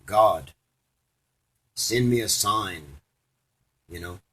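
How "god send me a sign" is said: praying. Retold or imitated. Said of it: "he was praying".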